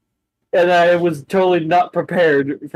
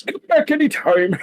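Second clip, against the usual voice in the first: bus door voice; 10 semitones higher than usual. Acted. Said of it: "the door opens and goes".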